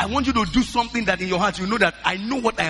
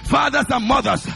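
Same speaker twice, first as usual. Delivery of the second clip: fervent prayer; 2 semitones higher than usual. Shown as a demonstration. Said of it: "Lift up your voice, say".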